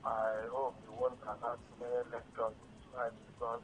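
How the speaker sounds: faint and hard to hear; softly, half to yourself; quiet. Real, not acted. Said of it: "I cannot hear you clearly".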